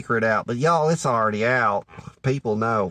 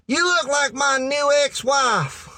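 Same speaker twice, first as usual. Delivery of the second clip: uncle's pickup line; 10 semitones higher, slower than usual. Retold or imitated. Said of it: "and he said".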